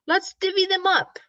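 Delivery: lightly voiced cheerful badger; grinning badger. A narrator's reading. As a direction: invite friends to share with a grin. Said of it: "Badger says with a grin".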